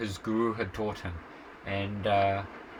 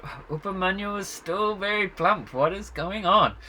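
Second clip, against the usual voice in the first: surprised teacher; 8 semitones higher, 4 dB louder than usual. Retold or imitated. Guru notices boy still plump.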